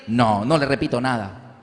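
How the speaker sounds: teacher refusing. Retold or imitated. Teacher refuses the daughter's request, low and curt. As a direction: shut her down like a dismissive teacher.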